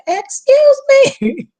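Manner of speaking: high, slow, offended retort; indignant high "Excuse me?". Retold or imitated. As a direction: drag it out in disbelief.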